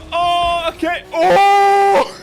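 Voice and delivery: high, loud yelp building to a shout; startled shouted "oh". Real, not acted. Gamer reacting to the road, startled shout. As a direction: yell out in sudden surprise. Reacting to sudden game event.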